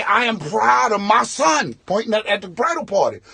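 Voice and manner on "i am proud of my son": put-on drunk toast. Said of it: "this little dude who looks like a famous rapper".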